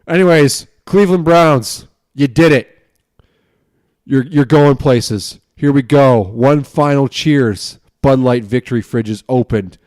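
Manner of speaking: rally the fans like it's game day; tipsy sports hype; fired-up fan. Real, not acted. Cheering Browns win, toasting.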